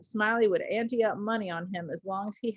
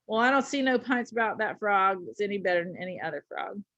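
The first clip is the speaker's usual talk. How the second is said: very deliberate. Acted. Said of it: "very deliberate".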